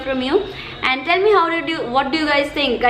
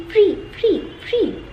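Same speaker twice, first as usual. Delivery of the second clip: excited; 7 semitones higher, slower than usual. Real, not acted. Excited repeat of free gift.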